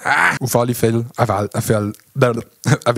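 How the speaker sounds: tripping over the words, then laughing; flubbed, laughing retake. Real, not acted. (verhaspelt, lachend wiederholt)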